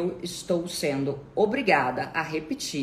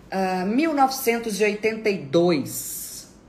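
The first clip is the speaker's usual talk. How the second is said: loud, high, triumphant announcement; grand exclamation; 7 semitones higher, 6 dB louder than usual. Pretend. Announcing the year she was born, exultant. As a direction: proclaim the year with raised voice. Mock fanfare for birth year.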